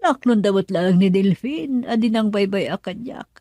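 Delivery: loud, pleading outburst; furious, desperate yelling; angry shout. Acted. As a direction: shout it at her in anguish. Confrontation over the child.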